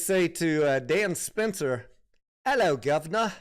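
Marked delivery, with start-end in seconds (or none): 2.5-3.3 a mock British accent, lightly done, a bit higher and louder; bad British accent. Streamer jokingly greets UK viewer in bad British accent. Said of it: "Tony, that's not a British accent".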